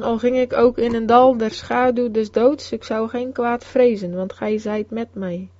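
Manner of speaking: solemn tone. A narrator's reading. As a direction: recite it like a sacred vow, hushed by the end. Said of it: "zei ze op een plechtige toon".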